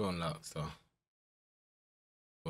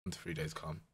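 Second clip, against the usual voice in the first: relieved; 8 semitones lower, 14 dB quieter than usual. Real, not acted. Reading injury length, relieved.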